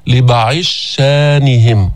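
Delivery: "لبعض شانهم" with ض merged into a doubled ش; Sousi merged reading. Shown as a demonstration. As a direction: read "لبعض شانهم" as libaʕi shshanihim. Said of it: "بيقرأها".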